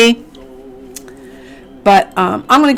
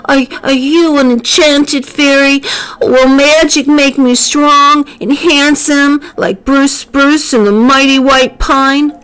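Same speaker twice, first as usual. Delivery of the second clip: little Rocky; 7 semitones higher than usual. A narrator's reading. Rocky asks the fairy.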